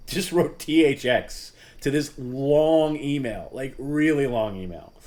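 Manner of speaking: high, loud, slow laughing outrage; laughing disbelief. Real, not acted. Host laughing to viewers about the reply, slow and incredulous. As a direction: laugh through the words in disbelief.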